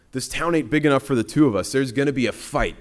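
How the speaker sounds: lightly played fighting talk; confrontational challenge. Voices demons challenging Jesus to fight.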